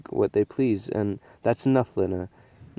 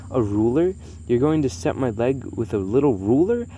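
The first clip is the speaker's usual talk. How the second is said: mild screech; 3 semitones higher, 3 dB louder than usual. Acted. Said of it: "screeched the bald man".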